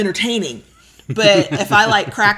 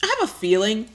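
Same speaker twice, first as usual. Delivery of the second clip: ice in mouth; 2 semitones higher than usual. Real, not acted. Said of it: "got an ice cube in my mouth".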